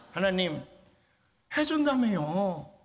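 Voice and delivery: high, loud complaining plea to God; pleading outcry. Retold or imitated. Teen boy crying out to God, high and loud. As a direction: cry out to God as a betrayed boy.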